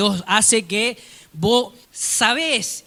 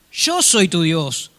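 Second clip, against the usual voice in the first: slow, measured divine statement; God speaking slowly and calmly; slow, solemn God; much slower than usual. Acted. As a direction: say it slowly and gravely. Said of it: "Otra vez la misma conversación".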